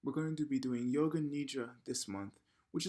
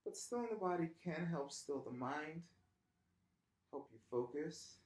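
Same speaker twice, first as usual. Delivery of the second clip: softer, unhurried voice with long pauses; guided meditation; 5 dB quieter than usual. Real, not acted. Yoga teacher lying down to start practice, soft guided meditation. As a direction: ease them gently into stillness.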